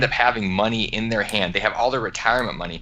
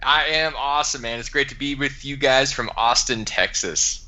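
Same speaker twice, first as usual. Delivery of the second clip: put-on Texas twang; 5 semitones higher than usual. Guest greeting the podcast hosts in a corny put-on Texas accent. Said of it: "my Texas twang is made up and it's totally manufactured".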